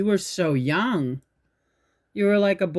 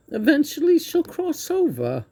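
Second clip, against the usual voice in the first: real crying; 11 semitones higher than usual. Real, not acted. Teller repeating God's answer about her death, crying. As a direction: squeeze the words out through tears. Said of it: "You always make me cry".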